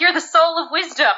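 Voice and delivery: acted affirmation. Daughter affirming her father, acted earnest praise. Retells characters praising each other.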